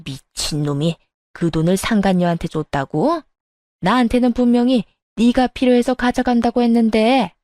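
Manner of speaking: mildly acted outrage; a touch of indignant elder; furious mother-in-law, understated. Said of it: "시모가 노발대발하더군요".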